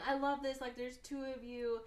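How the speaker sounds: high-pitched mock gushing; retold delight. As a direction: imitate her being thrilled, pitch lifted. Repeats the delighted woman's quote.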